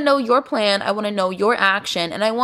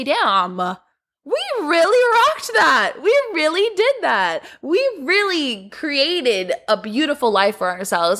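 much higher, put-on voice of an old woman looking back; proud old self; 4 semitones higher, slower than usual. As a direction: play your wrinkly old self, proud. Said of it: "look back at our lives and say".

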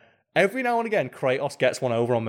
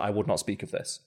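retold game character; 4 semitones lower, 6 dB quieter than usual. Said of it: "Nathan Drake's like".

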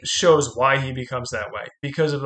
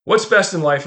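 loud, commanding warlord asking his men; proud chieftain testing his warriors, loud and commanding; booming chieftain question; 4 semitones higher, 6 dB louder than usual. Retold or imitated. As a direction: call it out like a barbarian chief to his horde. Chieftain's famous question acted out.

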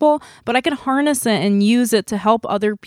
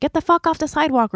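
retold yell; 7 semitones higher than usual. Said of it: "some old woman yelled at him".

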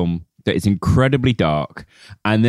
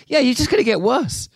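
mock Irish hitman; 12 semitones higher than usual. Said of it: "He's like".

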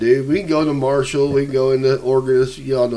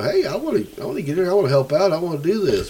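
eager; 5 semitones higher than usual. Retold or imitated. Young eager self quoted.

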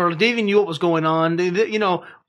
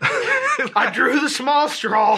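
mock resignation; 7 semitones higher, much slower than usual. Little girl's resigned line, jokingly voiced.

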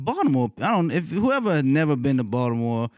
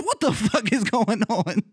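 retold disbelief; 7 semitones higher than usual. Retelling his alarmed reaction.

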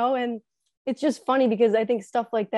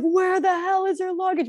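mock angry family; 8 semitones higher than usual. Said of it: "everyone's freaking out".

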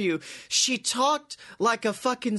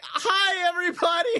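high chirpy hi everybody; creepily happy; 10 semitones higher than usual. Retold or imitated. Natalya waving to fans as she leaves, creepily happy. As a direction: sing it out while walking away. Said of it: "creepily happy".

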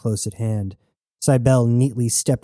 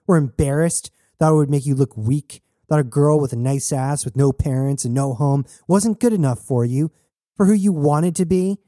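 higher-pitched, accusing rant; angry tirade; 4 semitones higher than usual. Acted. Jazz shoving Knox against the wall, angry accusation. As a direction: keep the accusations climbing in pitch.

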